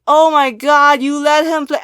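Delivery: high, loud imitation of shocked reaction; mock outrage. Fans reacting to leader's choice, mock outrage. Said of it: "everyone is going crazy wild".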